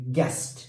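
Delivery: guest said with a hard G straight into E; silent U. Shown as a demonstration. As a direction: say "guest" with no U sound. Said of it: "we have a silent letter". (guest में U silent)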